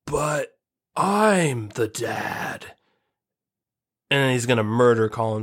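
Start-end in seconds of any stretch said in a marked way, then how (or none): 0.0-2.7 robot voice. Acted. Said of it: "The robot's gonna be like".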